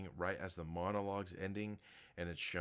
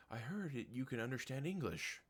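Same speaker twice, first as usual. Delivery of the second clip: mock eagle voice; 7 semitones higher than usual.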